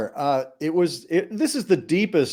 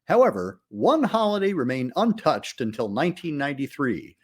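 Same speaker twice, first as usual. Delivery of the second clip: measured, polished voiceover read; documentary narration. Acted. Host opening the podcast, read as a polished documentary voiceover. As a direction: narrate it like a horror retrospective trailer.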